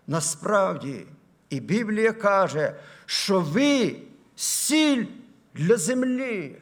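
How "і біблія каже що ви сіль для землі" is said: very slow, high scripture proclamation; solemn, drawn-out pulpit declaration; preach. Acted. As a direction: stretch each word out to the congregation.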